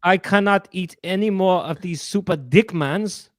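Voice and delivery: lightly mocking put-on actress voice; mock the actress's emphatic refusal; imitating ad actress. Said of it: "She's like".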